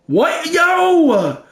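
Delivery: high, startled outburst; shocked yelp. Real, not acted. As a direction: react like you can't believe it. Shocked by a bad play.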